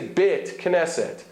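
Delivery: "bit, knesset" with a mid eh, no glide; vowel between open eh and ay in "bit"; Israeli vowel. Shown as a demonstration. Teacher quoting how they say it, Israeli eh. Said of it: "the Israeli form of both these vowels".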